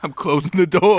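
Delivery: dramatic exit. Pretend. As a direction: slam the door on the game. Dramatic persona line.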